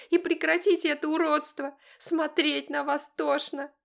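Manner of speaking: high, loud screaming outburst; furious tirade. Acted. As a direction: lose it and hurl it at both parents. Daughter screaming at parents.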